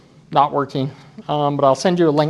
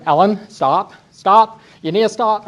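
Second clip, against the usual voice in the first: urgent call; 5 semitones higher, 3 dB louder than usual. Retold or imitated. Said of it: "I'm there going".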